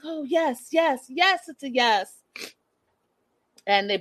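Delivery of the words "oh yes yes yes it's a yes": mock excited yes. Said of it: "she's like".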